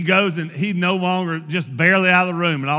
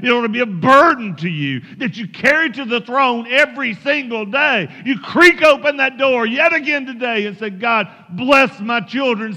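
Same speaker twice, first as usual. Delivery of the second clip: driving exhortation, swelling in pitch and volume; impassioned preaching. Real, not acted. Preacher urging parents to pray for their children's salvation, impassioned. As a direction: urge the congregation on with rising fervor.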